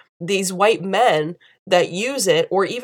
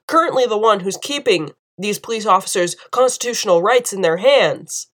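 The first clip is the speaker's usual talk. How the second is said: higher, pressing indignation; indignant outrage; 5 semitones higher than usual. Real, not acted. Vlogger defending the soldier to viewers, high and indignant. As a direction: demand they look, rising in outrage.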